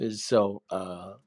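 talking while chewing gum; words around a wad of gum. Real, not acted. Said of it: "I'm chewing on this piece of gum".

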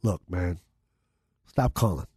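a hint of a stern mob booker; mobster voice. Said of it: "I'm doing, like, a mobster voice right now".

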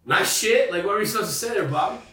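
high, loud, laughing through the question; laughing protest. Real, not acted. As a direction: laugh it off, defending yourself. Laughing defensive rhetorical question.

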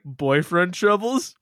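cheesy TV pitch, rising; infomercial voice. Retold or imitated. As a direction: sell it like a late-night ad. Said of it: "it sounded like an infomercial".

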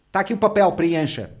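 loud mock order; brusque clerk. Clerk pushing a form on a client, brusque. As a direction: imitate an impatient clerk giving orders. Clerk brushing him off, acted.

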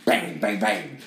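punchy spoken "bang" effects; imitated gunfire. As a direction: fire off mock gunshots by mouth.

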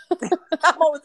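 slow, giggling words; laughing. Real, not acted. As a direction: laugh your way through. Laugh heard.

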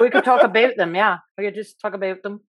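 "about" said as "a-boat", Canadian style; Canadian vowels. Shown as a demonstration. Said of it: "It's some Canadians".

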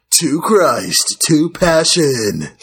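slow, dramatic trailer announcer; lightly voiced epic trailer narrator, drawn out; movie trailer voice. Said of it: "with my movie voice here".

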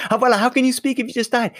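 can't believe she's talking while dead; teenage grandson's shocked protest; incredulous outburst. Retold or imitated. Boy's disbelief at playing-dead grandmother.

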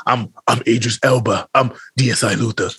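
a touch of a cool British star; mock-cool, low self-introduction; Idris Elba. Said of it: "Idris Elba don't sound like that".

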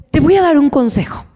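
a secretive whisper. Real, not acted. Speaker confiding a tip to parents, whispered.

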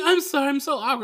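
high, loud imitation of an awkward date; hammed-up nervous high voice; mock awkward apology. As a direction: apologize in a squeaky, giggly fluster. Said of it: "she says she's awkward".

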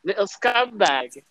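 slow, drawn-out British insult; put-on British accent, taking your time. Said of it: "the British guy yelling at me".

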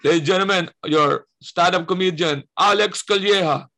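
slow booming announcer introduction; voice of God intro. Retold or imitated. Backstage announcer calls the comedian, booming voice. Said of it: "Voice of God pa".

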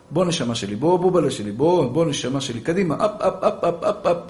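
put-on soft, low, loving coax to a little boy; tender coaxing. Shown as a demonstration. Mother gently coaxing her messy child to tidy up. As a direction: croon it gently like to a toddler.

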